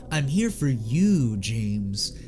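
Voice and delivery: sultry low purr, slowed down; seductive, low and slow. Retold or imitated. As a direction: breathe it out slowly and seductively. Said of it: "delivers it like".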